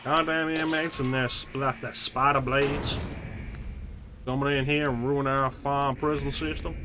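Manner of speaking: lightly voiced grumbling prison guard; a hint of an indignant guard. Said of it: "This is now the voice of the rest of the game".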